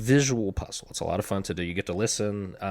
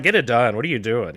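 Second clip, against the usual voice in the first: loud, higher mock scolding; mimicked bossy boss; 3 semitones higher, 9 dB louder than usual. Boss scolding the editor, imitated loud and impatient. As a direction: fire it out loud, then ease off. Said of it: "she's like".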